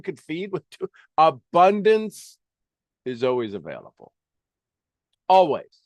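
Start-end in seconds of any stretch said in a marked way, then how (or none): 1.2-2.4 Abundance slow and loud; emphatic Abundance. Real, not acted. Emphatic key word. 5.3-5.8 Always punched out loud on its own; emphatic Always. Real, not acted.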